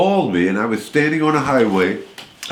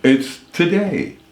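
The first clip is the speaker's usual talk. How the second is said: Today Show intro; 5 semitones higher than usual. Retold or imitated. Voice-over man matching the Today Show intro sound. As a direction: stretch out Today like the show opener. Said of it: "had to have the same today sound".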